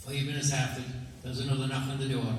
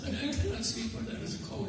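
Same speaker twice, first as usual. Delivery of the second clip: guest's voice; 10 semitones higher than usual. Retold or imitated. Second guest refusing to sleep near the cow, high voice. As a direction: keep the high fussy guest voice.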